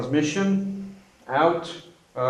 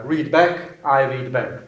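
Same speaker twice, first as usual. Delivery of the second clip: radio procedure demo; 3 dB louder than usual. Shown as a demonstration. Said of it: "the beginning and the end is quite the same".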